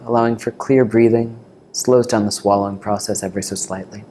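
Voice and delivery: calm meditation teacher, long pauses between phrases; guided meditation. Real, not acted. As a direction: guide them gently into the breath, unhurried.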